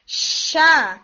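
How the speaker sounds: "شا" started with an audible sh that runs on; sh-initiated demo. Shown as a demonstration. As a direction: open "شا" with a hissing sh. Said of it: "آپ ش کر کے آپ initiate کر رہے ہیں".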